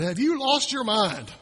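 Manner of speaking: slow, deliberate disbelieving question; slow exasperated scold; exasperated parent. Retold or imitated. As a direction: drag it out like a fed-up parent. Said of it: "he might have looked at them and said".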